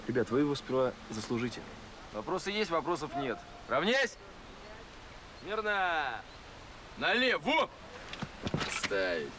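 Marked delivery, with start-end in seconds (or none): 3.7-7.7 sharp parade-ground orders; barking drill commands. Acted.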